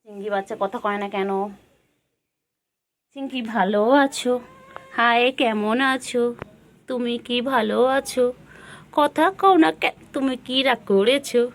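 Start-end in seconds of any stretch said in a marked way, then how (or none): 3.2-11.4 sing-song pet talk. Real, not acted. Asking silent pet questions.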